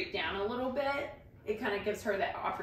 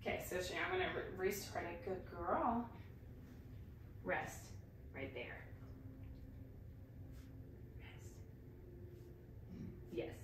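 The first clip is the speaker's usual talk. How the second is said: soft calm voice; 3 semitones lower, 13 dB quieter than usual. Real, not acted. Calm quiet cueing.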